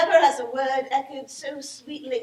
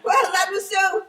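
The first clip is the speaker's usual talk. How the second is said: swooning shout; 3 dB louder than usual. Acted. Swooning over the farmer.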